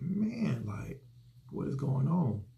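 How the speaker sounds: retold emotional outburst. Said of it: "I was fighting back my tears".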